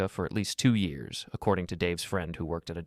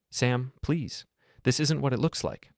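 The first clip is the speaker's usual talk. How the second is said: higher-pitched, mildly desperate plea; 5 semitones higher, slower than usual. A narrator's reading. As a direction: plead with a touch of desperation. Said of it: "looked at me desperately".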